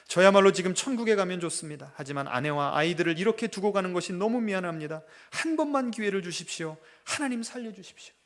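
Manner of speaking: pleading prayer with rising force; a dying father's tearful, pleading prayer. Retold or imitated. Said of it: "눈물로 하는 기도를".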